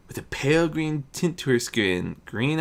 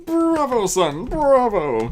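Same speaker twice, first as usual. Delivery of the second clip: higher, louder, slow delighted cheer; proclaimed bravo; 12 semitones higher, 6 dB louder, slower than usual. Acted. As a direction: savour each bravo like a proud father. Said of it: "Sheogorath proclaimed as he clapped".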